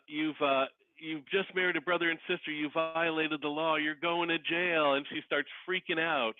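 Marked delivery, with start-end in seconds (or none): 0.1-4.9 stern county clerk. Retold or imitated. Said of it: "with the county clerk saying".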